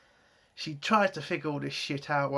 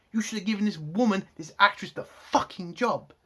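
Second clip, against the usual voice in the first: angry rant; 3 semitones higher than usual. Real, not acted. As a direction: demand it, worked up and indignant. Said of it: "Sorry, I'm just angry".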